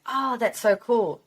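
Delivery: mock the waiter's wide-eyed delight; impressed waiter. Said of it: "And he was like".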